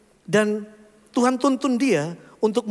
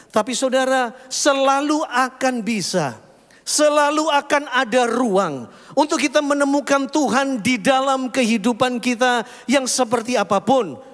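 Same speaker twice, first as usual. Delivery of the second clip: fervent preaching; 6 semitones higher than usual. Acted. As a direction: lift the congregation with rising conviction. Preaching climax over music.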